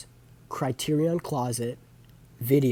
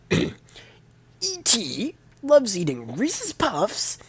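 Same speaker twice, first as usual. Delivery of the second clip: slow, much higher, swelling to a loud bark; Neil Hamburger punchline; 11 dB louder than usual. Retold or imitated. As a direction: build the punchline and blast the end. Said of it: "I have to do the impression now".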